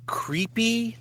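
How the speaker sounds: breathy, creepy whispered word. Shown as a demonstration. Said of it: "the big thing that we just wanted".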